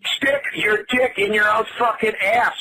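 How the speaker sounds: shouting. Real, not acted. Victim shouting back.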